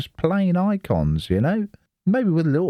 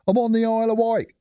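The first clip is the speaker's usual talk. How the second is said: higher and fast, Isle of Wight blurted out brightly; excited reveal; 14 semitones higher, faster than usual. Real, not acted. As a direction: announce it like a surprise. Reveals where he lives.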